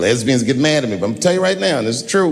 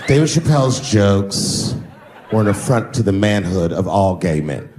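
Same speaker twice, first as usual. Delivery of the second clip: made-up blogger voice; 8 semitones lower than usual. Retold or imitated. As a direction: ham up an offended pundit. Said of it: "I'm just making this voice up".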